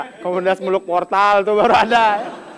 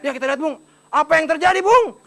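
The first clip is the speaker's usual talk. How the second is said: mock commentator. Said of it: "Jadi gini".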